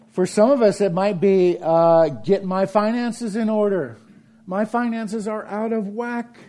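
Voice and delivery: mock fretful believer. Voicing a worried believer.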